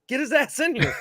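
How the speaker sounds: mock urgent summons; retold urgent order. Staff calling for the dad to be brought in, urgent.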